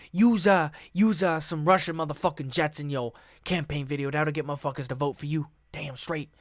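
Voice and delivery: a hint of a street-slang Putin hyping his jets; gangsta Putin. Vlogger voices Putin giving Trump campaign advice as a gangsta. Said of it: "Putin's like".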